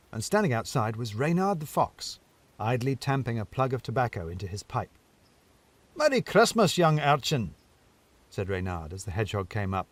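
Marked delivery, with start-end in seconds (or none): 6.0-7.5 sly fox. Acted. Reynard the fox greets.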